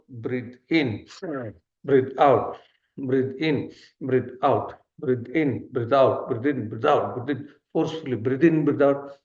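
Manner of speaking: rhythmic in-and-out calls, gradually quickening; steady drilled cadence that tightens as it goes; breathing-exercise cues. Shown as a demonstration. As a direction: count out breaths like an instructor, picking up speed. Leading paced breathing exercise.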